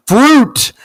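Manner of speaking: emphatic rant. Real, not acted. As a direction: declare it slowly and firmly. Emphatic rant about fruit.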